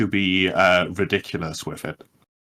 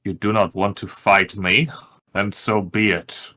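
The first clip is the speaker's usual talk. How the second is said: a hint of a proud dragon threatening; deep dragon voice. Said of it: "as in a deep voice".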